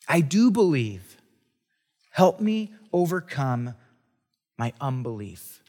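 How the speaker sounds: slow pleading. Acted. Rereading the father's plea slowly.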